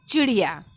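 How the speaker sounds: teacher's firm चिड़िया, two brief i's then या; jerked short i. Shown as a demonstration. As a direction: clip both short i sounds in चिड़िया. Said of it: "झटके के साथ दोनों वर्णों को".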